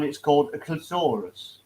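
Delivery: "clitoris" with the stress on the middle syllable; posh pronunciation. Acted. Man correcting Carl on the word, posh pronunciation. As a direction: say "clitoris" as cli-TOR-is, correcting poshly. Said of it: "You're a posh wanker".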